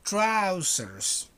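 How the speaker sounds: Trousers announced clearly; Trousers, each sound clear; model pronunciation. Shown as a demonstration. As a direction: present the word Trousers to the class. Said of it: "Repeat after me".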